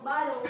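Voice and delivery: "bottle" with the double T as a D; flap T. Shown as a demonstration. Teacher gives a double T example, "bottle" with a D sound. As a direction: say "bottle" like "boddle". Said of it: "change to a D".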